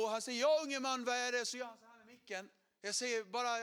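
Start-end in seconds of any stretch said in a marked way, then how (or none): 0.4-1.5 put-on loud, higher call to young man; mock preacher from the pulpit; booming preacher. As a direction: pastor interrupted mid-sermon. Preacher addresses young man, quoted.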